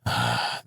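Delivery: low, soft sigh. A narrator's reading. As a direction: let out a quiet sigh. Rueful thought to himself.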